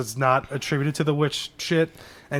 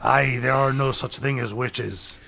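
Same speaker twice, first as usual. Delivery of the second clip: put-on slow old sailor drawl; a hint of an old sea dog; sea captain voice; 3 semitones lower than usual. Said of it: "a different sea captain voice".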